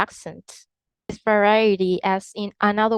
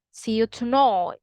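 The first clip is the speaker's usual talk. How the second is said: put-on Birmingham tonight with the vowel of boy; Birmingham accent. Shown as a demonstration. Teacher explaining the vowel, Birmingham accent. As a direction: say tonight as "tonoyt", Birmingham style. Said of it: "Whereas in Birmingham".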